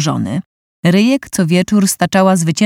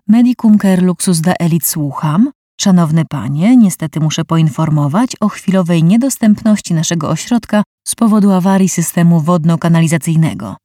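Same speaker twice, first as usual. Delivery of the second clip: flat receptionist. Acted. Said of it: "wydukał beznamiętnie głosik".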